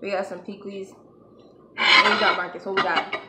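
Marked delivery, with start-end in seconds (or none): 1.8-3.1 calling out. Real, not acted. Calling out to Marcus.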